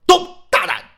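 high, loud courtroom bark; stern rebuke. Acted. The prefect shouting down the kneeling defendant. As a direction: slam him with the magistrate's rebuke.

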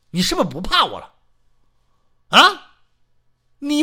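fast, then a loud high "啊"; bully her into line; threatening bark. Acted. Old man threatening his wife to obey, fast and loud.

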